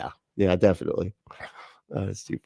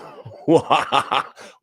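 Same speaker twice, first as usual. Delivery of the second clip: villain laugh; 4 semitones higher than usual. Pretend. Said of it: "I can't do the laugh yet".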